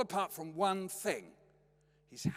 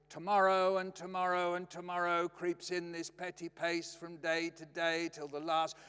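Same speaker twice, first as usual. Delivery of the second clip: mock declamation; 2 semitones higher than usual. Dad reciting while sawing wood, mock declamation. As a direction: intone it like solemn verse.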